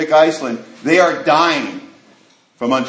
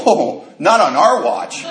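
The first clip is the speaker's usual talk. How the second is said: mock heroic vow; 3 semitones higher, slower than usual. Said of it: "And I go".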